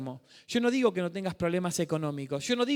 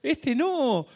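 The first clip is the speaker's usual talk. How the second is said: disapproving mechanic; 5 semitones higher, much slower than usual. Acted. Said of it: "lleva al mecánico y te dice".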